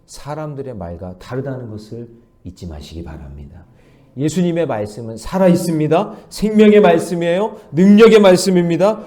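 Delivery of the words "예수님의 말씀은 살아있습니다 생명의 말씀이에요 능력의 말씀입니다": louder, rising proclamation; preaching at full force. Acted. Pastor proclaiming the living word to the church, louder. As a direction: build each line into a bolder declaration.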